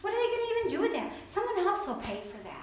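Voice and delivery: lightly voiced devil mocking an offering; devil talking. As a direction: scoff at the gift like the tempter. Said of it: "That's how the devil talks".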